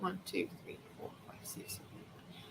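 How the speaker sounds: very soft, under the breath.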